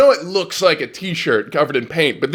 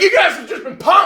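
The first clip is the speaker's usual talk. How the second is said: higher, hammed-up TV host reveal; Ashton Kutcher bit; 13 semitones higher than usual. Imagining Ashton Kutcher's reveal, hammed-up host voice. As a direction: announce it like a prank show host. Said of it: "He's like".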